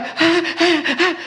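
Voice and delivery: put-on high excited baby squeals; little high "ah" bursts like a baby; imitated baby cries. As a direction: mimic a baby calling out, high-pitched. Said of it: "e gritava, parecia que tava tentando falar".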